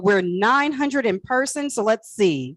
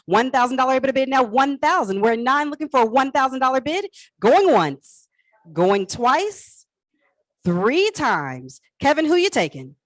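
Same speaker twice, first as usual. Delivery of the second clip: auctioneer; 3 semitones higher than usual. Acted. Calls bids, going once twice.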